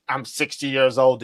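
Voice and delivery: mock old-man voice, lightly done; a hint of an old man; mocking caller. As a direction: parody the caller's claim. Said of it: "bullshit talk about".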